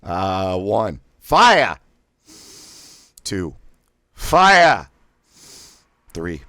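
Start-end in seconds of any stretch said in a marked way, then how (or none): 1.2-1.8 fire, shouted high and loud, air dumped at once; sharp thrust of fire. Shown as a demonstration. Diaphragm exercise, coach blasting fire out sharply. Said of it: "pronounce it as fire, much like a Boston accent". 4.1-4.9 fire, shouted high and loud, air dumped at once; sharp thrust of fire. Shown as a demonstration. Diaphragm exercise, coach blasting fire out sharply. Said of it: "pronounce it as fire".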